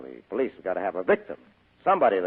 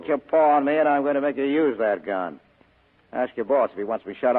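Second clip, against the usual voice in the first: louder, hard warning; threatening; 3 semitones higher, 5 dB louder than usual. Acted. Spade warning the gunman not to frisk him, threatening. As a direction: dare him to try it.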